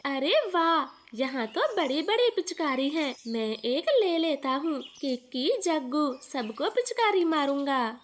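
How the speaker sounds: put-on a light child's voice, eager; little boy Kuku. Little son tells his mother about the tent, eager child voice. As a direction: play the excited little son.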